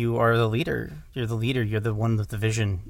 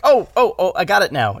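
much higher and louder, hammed-up eureka; mock sudden realization; 8 semitones higher, 9 dB louder than usual. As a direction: play the clueless director finally getting it. Mock director's late realization.

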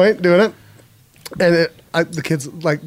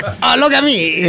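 a slow, higher posh British "look at me"; mock posh British; 6 semitones higher, slower than usual. Mocking a co-host who drifted into posh British, in a slow, high put-on accent. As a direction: preen in a mock upper-class British accent. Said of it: "you're like".

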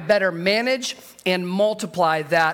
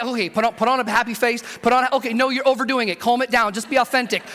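mock-panicked self-coaching; inner freak-out; faster than usual. Preacher acting out his thoughts while opening a gift, mildly panicked. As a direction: talk yourself through a mild comic panic. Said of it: "I start freaking out on the inside".

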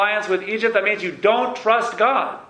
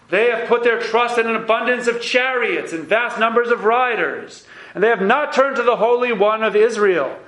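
prophet's rebuke; 4 semitones higher than usual. Acted. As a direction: proclaim it like a rebuking prophet, pitched higher. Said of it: "Here's the prophet himself speaking".

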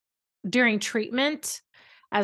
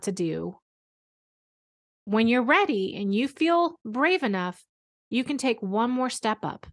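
gentle reassurance. Retold or imitated. Mom reassuring scared son.

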